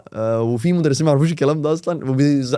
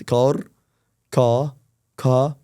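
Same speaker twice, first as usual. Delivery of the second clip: British car; much slower than usual. Shown as a demonstration. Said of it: "دي بريطاني".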